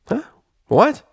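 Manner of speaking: high, loud confused what; startled. A narrator's reading. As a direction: snap out of it puzzled. Rainbow Dash confused.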